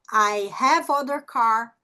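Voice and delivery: slow demo, "have" flowing straight into "other"; linked vowels. Shown as a demonstration. Teacher showing a vowel forming a syllable, linked and slow. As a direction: join the V of "have" onto "other", slowly. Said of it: "ele vai se conectar com a vogal".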